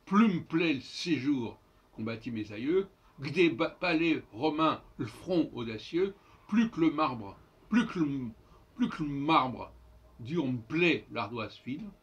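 "plus me plaît le séjour" as "plum' plaît l'séjour"; emphatic beats, "que le" shrunk to "qu'le"; dropped schwas. Shown as a demonstration. Teacher demonstrating the different sonority, dropped schwas. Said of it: "la sonorité est totalement différente".

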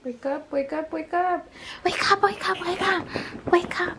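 high playful sing-song; sing-song wake up. Real, not acted. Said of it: "That's the only way I get her".

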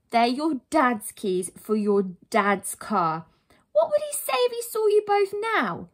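loud, emphatic, rising in pitch; stern challenge. Acted. Heroine confronts boys with dad's disapproval, stern challenge. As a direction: press the point home firmly.

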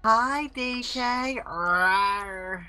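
dinosaur voice. Acted. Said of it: "my special greeting for D K".

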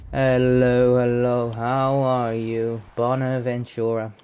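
loud then slow, sing-song hello; mock greeting. Gamer welcoming a new player card with a playful slow hello. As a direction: greet the card like an old friend.

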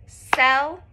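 celery broken into clapped beats; syllable by syllable, cel-er-y. Shown as a demonstration. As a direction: clap out each syllable of celery. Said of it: "let's clap that one out".

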